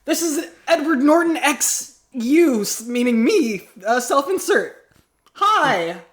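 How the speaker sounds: high, slow, starstruck sigh of a name; swooning fan. Acted. Fan character swooning at her crush, high and slow. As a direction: melt over him.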